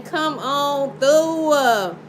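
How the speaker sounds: very slow, stretched out call; very drawn-out plea. Real, not acted. Tarot reader stretching a call to the spirit, slow. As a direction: draw every word long.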